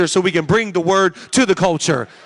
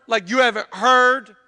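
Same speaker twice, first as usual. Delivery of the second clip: mildly incredulous, at usual volume; condescending disbelief; slower than usual. Shown as a demonstration. Preacher showing how not to approach the subject, condescending disbelief. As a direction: put a touch of disbelief on "heard". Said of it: "in an encouraging fashion".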